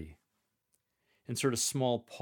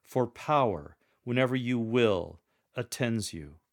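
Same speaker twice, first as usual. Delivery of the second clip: louder, majestic "For power, whenever you will"; strong and majestic; 4 dB louder than usual. Shown as a demonstration. Lector closing the verse, strong and majestic. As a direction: proclaim it majestically. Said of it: "strong and majestic tone and demeanor when you proclaim".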